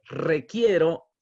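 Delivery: "Requiero" dicho lento y marcado; slow, stressed Requiero. Shown as a demonstration. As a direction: subraya "Requiero" despacio. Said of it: "cuando Pablo dice". ("Requiero", lento y enfático)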